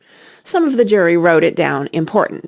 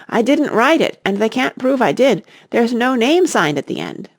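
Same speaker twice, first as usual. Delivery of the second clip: pleading protest; 6 semitones higher than usual. Acted. Knave protesting his innocence.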